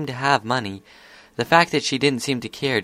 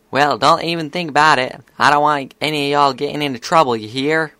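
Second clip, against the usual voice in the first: louder, higher stern warning; scolding big sister; 4 semitones higher, 6 dB louder than usual. A narrator's reading. Big sister keeping fillies out of trouble, scolding. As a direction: lay down the law to the kids.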